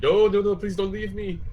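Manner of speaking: high, desperate begging, loud at first; panicked plea. Acted. Knight begging the cart not to leave, panicked high plea. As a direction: squeal after the rolling cart, begging it to stop. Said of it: "just like".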